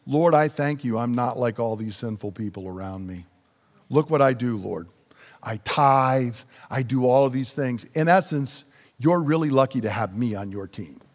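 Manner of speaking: lightly voiced Pharisee, pitched low; a hint of self-satisfied prayer, low and understated; self-righteous prayer. Pharisee telling God what he does, lightly self-righteous.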